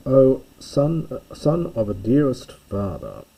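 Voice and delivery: delighted calling. Shown as a demonstration. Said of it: "calling, yelling it out because he's so delighted".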